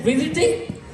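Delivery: a startled, rising Visiting?; incredulous. Retold or imitated. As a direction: throw Visiting back in surprise. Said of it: "I said".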